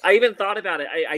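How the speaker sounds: amused laugh at herself; chuckling after a slip. Real, not acted. Laughing at own stumble.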